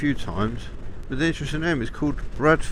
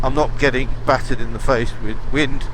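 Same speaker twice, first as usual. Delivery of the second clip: inside a helmet. Real, not acted. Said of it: "You can probably hear not a lot of wind noise on my helmet".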